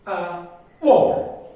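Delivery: brief unstressed "Uh", then a punched "war"; two-beat demo with "war" stressed. Shown as a demonstration. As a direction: lean hard on "war" after a light "Uh". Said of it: "War stressed".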